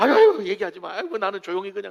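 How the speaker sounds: modest, humble-sounding tone. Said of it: "알아주는 걸 싫어하는 사람이 있어".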